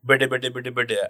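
lightly imitated mockery of a foreign language; mocking gibberish. Man behind mimicking someone's Bengali phone call, mocking gibberish. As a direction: repeat mock foreign syllables. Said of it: "He just kept repeating it".

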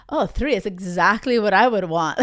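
mock insincere guy, pitched a little down; bullshitter voice. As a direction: agree too readily, like a bullshitting player. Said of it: "that sounds like a bullshitter".

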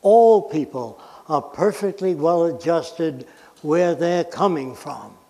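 slow, spaced words for emphasis; slow and deliberate. Shown as a demonstration. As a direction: say it slowly so every phrase lands. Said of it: "let me say this slowly".

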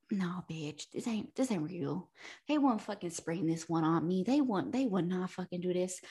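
low, very soft talking to herself; muttered disbelief. Retold or imitated. Reader reaching chapter eight, muttered disbelief. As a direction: mutter it under your breath in denial.

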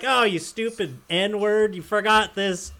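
high-pitched mock country rant; imitated cursing rant. Upset son berating his dad at the hitch, mock angry cursing. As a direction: play the upset son grumbling curses, voice pushed up high. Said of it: "just yelling curse words with this thick".

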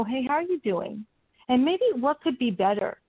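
gentle, caring check-in question. Shown as a demonstration. Coach showing a caring tone for a struggling colleague. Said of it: "ask them in a caring voice".

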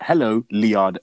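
Liard said with an L instead of Iyade; mock wrong name. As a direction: read Liard as the mistaken email greeting. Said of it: "they send it back like".

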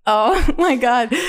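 slow, high, laughing exclamation; drawn-out laughing oh my God. Retold or imitated. Reacting to hilarious trend sound.

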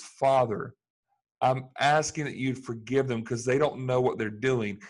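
loud plea for forgiveness; calling out to the Father. Retold or imitated. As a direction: call it out as a plea upward. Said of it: "he calls out and says".

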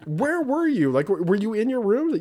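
high, loud questioning; retold puzzled questions; baffled dad. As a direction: demand an answer in disbelief. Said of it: "And I was like".

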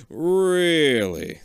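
a calmer slow retake of the doctor's line. A narrator's reading. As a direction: draw it out slowly and knowingly. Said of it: "the other doctor says slowly".

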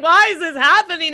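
mildly hammed-up dismay, pitch lifted; retold outburst at the dashboard; mock dramatic. Retelling their own meltdown to friend, mock dramatic. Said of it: "It was so dramatic".

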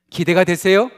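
normal talking voice

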